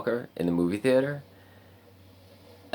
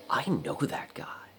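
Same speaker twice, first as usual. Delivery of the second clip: hushed, higher-pitched, drawn-out disbelief; retold stunned recognition; 7 semitones higher, slower than usual. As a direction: whisper it slowly, as if amazed. Retold stunned inner reaction.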